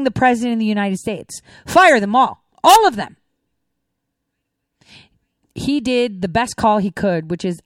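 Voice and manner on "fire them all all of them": louder rising demand to fire them all; firing up viewers against the president's advisers, rising demand; fired-up demand. Real, not acted.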